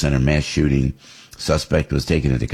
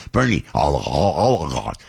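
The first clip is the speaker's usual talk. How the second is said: oligarch in a mock Brooklyn Bernie accent, the r dropped. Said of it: "with the Bernie, uh, accent".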